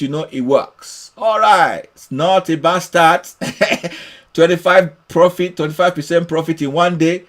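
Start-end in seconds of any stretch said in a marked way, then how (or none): 3.4-4.0 short, light chuckle. Real, not acted. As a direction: let out a brief laugh. Amused by the result.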